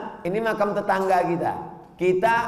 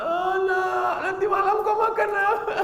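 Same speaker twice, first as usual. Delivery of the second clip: much higher, whiny mock mother voice; mocking a weepy mother; 13 semitones higher than usual. Preacher mocking a mother fussing over her child, high whiny. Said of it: "Jangan begitu".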